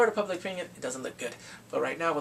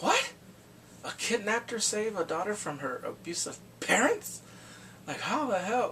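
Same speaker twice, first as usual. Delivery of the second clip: public disbelief; 4 semitones higher than usual. Retold or imitated.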